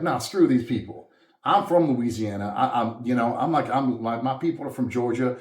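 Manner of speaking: proud, defiant retort. Retold or imitated. Telling the kids who mocked his Southern accent, defiant. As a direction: stand your ground, chin up. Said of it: "I would just draw it out".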